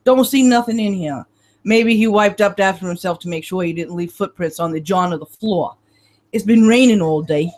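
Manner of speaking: put-on gruff cop with a Brooklyn accent; lightly voiced Brooklyn detective. Detective Marino showing the examiner the way in, Brooklyn accent. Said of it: "maintaining a Brooklyn accent".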